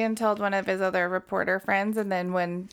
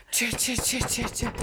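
cha cha chant; 2 semitones higher than usual. Shown as a demonstration. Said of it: "He did the".

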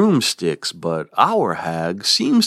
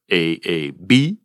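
whisper; 4 semitones lower than usual. Acted. Whispered rhyme scheme aside.

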